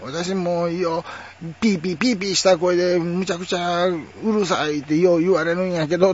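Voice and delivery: high, piping, squeaky-voiced complainer; shrill chirpy voice. Acting someone often told they are noisy, shrill piping voice. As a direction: pipe it up high, put-on squeak.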